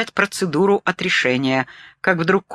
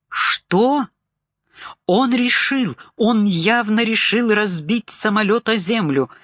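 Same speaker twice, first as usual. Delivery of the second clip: higher pitched disbelief; alarmed, pitched-up panic; shocked; 5 semitones higher, slower than usual. Acted. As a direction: caught off guard and scared.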